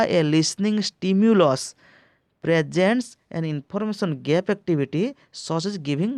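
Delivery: ଷ୍ଟିମ୍ୟୁଲସ୍ drawn out slowly with a falling close; slow emphatic reading. Shown as a demonstration. Teacher announcing the correct answer to students, slow and emphatic. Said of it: "ଏହାର correct answer ଦେଖିବା".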